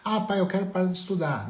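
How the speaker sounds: filho pedindo. Acted. (filho pedindo ao pai, tom mais agudo)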